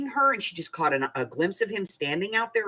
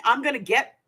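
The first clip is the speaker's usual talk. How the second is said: high, fast mock rant; imitated yelling; 7 semitones higher, 3 dB louder, faster than usual. Pregnant woman yelling at a guy in a truck, imitated yelling. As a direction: fire off threats like an angry woman yelling. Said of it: "She was yelling".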